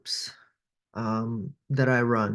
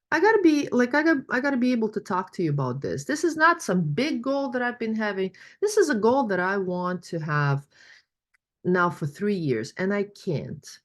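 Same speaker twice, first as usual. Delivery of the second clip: higher voice, pleading and torn; imitating a participant; 6 semitones higher than usual. Coach retells a participant admitting her goal, higher pleading voice. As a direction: voice the woman confessing she's stuck, raised pitch. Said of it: "and she goes".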